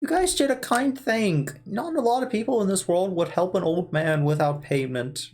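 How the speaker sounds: lightly voiced old man; a hint of a thankful old man. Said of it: "this is my default old man voice".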